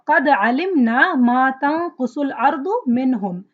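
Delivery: fast, flowing recitation of the verse; Quran recitation. Shown as a demonstration. Teacher reciting the next example ayah, quick melodic recitation. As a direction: recite the ayah in one smooth breath.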